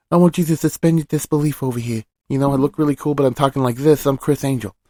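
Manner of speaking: soft, hushed magician voice; a quiet, mysterious street magician; Criss Angel impression. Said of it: "not a good Criss Angel impression".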